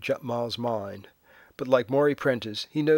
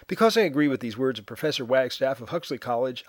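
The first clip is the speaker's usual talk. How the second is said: sped up. Acted. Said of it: "speeding it up in hopes of providing a moving target".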